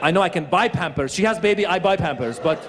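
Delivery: lightly voiced Persian man; puzzled, with a Persian accent. Comic as Persian husband puzzled by pampering, Persian accent.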